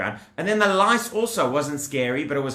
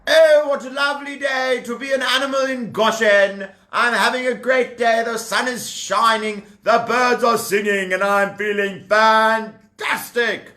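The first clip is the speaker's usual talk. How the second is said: high, loud, cheerful animal voice; sing-song joy of a carefree animal in the sun; happy animal; 5 semitones higher, 3 dB louder than usual. Acted. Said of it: "That is what the Jewish animals were saying".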